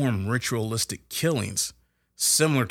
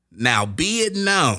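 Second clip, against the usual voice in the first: rough put-on presidential voice, raised, high, loud; 6 semitones higher, 6 dB louder than usual. Reading out what President Adams said after he read the treaty, in an attempted President Adams voice. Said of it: "that's probably not his voice".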